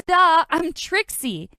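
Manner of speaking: slow, loud, exasperated duh; annoyed duh. Acted. Trixie exasperated at Julia not recognising her. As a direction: state the obvious, fed up.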